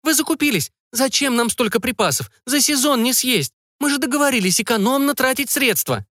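a thrifty mother fretting over spending, voiced high; high-pitched mother. A narrator's reading. Mother fussing at her children over the food supplies, high fretful voice.

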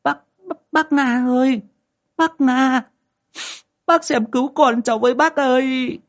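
put-on high, near-tears pleading to the old lady; whimpering plea. A narrator's reading. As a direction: beg for help on the edge of tears. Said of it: "mếu máo". (giọng mếu máo cao, van nài)

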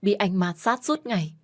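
wife pushing her husband away, shouting. Acted. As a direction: finally snap and shout back. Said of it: "Tôi đã hét lên".

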